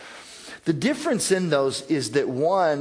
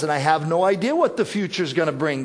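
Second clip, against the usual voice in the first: frustrated complaint; faster than usual. Retold or imitated. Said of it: "Sometimes our attitude is".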